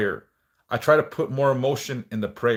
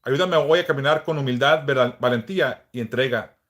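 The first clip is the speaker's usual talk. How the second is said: earnest spoken prayer, unhurried; a devout plea to the Saint. Acted. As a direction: pray it with devotion, feeling each plea. Leads a prayer aloud.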